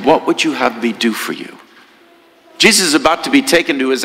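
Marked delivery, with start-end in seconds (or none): 0.0-1.6 tender. Acted. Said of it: "so thoughtfully, lovingly says to him".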